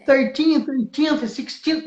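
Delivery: thirteenth and sixteenth with careful th endings; English ordinal demo. Shown as a demonstration. Teacher showing students hard English ordinals, careful th. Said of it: "tenta falar número ordinal".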